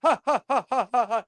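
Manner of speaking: high hammed-up cartoon hero laugh, ha ha ha. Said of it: "end of every single cartoon".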